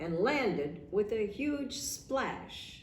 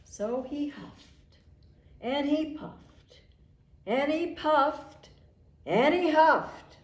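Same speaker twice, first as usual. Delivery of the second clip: slow, climbing higher and much louder each time; building huffing; 7 semitones higher, 8 dB louder than usual. A narrator's reading. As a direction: build the effort up to a big blow. Wolf blowing harder.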